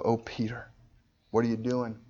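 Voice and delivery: gently sorrowful appeal; a touch of tender grief; loving sorrow. Acted. Jesus looking at Peter with love and sorrow, mildly grieved. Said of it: "With love and sorrow".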